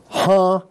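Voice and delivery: "ha" opening on a breathed h; rough breathing. Shown as a demonstration. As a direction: sound out "ha" by itself. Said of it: "That's a rough breathing mark".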